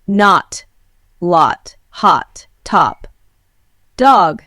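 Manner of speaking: American accent, open unrounded O like "father" in "not, lot, hot"; American accent: lips spread on "not, lot, hot, top, dog"; American accent O demo; American short O. Shown as a demonstration. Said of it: "In American English, we say".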